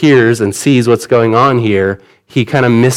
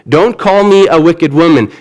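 pleading protest; 5 semitones higher than usual. Retold or imitated. Hannah protesting to the priest, raised indignant plea. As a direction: push back hard, hurt and insistent. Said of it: "She says".

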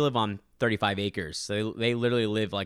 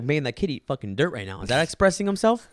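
angry retort; 3 semitones higher than usual. Retold or imitated. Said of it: "He's like".

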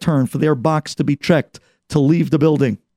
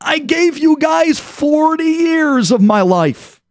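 retold scream; 10 semitones higher than usual. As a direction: cry out forty years of grievance. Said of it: "And he screams".

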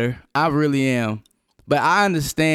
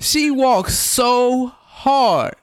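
words squeezed through laughter; laughing; 10 semitones higher, much slower than usual. Real, not acted. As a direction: say it while cracking up. Teasing about wife's heavy walk.

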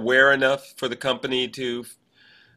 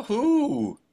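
laughing question; 13 semitones higher than usual. Real, not acted. Playful question after teasing build-up.

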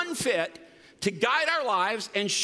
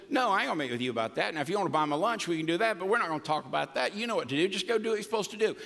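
blunt friend; 3 semitones lower, much faster than usual. Retold or imitated. Pastor friend's blunt reply.

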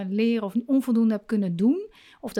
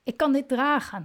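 higher, eager come-on-then to the tantrum; welcoming resolve; 4 semitones higher than usual. Shown as a demonstration. Parent inwardly saying yes to the child's tantrum, bravely welcoming. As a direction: greet the tantrum head on, brave and open. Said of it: "als je er ja tegen zegt".

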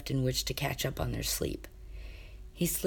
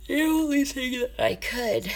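higher, lightly voiced young prince; sleepy prince reply; 10 semitones higher than usual. Mamoru answering Kane, lightly voiced higher prince. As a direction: answer simply, a touch higher.

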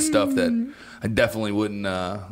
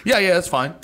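slightly raised, insistent caller; imitated pressuring; 3 semitones higher, faster than usual. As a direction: hurry them along, question after question. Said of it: "pressuring me to go".

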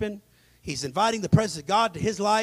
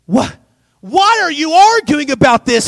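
mild rebuke; 7 dB louder than usual. Acted. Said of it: "Jesus rebukes them".

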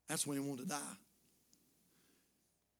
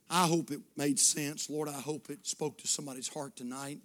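closing prayer; 2 semitones lower than usual. Acted. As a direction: pray gently over the room. Closing prayer over music.

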